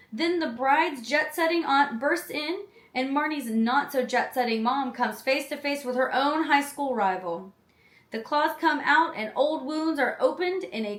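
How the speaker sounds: lively, lifted read of a film blurb; synopsis read-aloud. Real, not acted. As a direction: read it out like a back-cover summary.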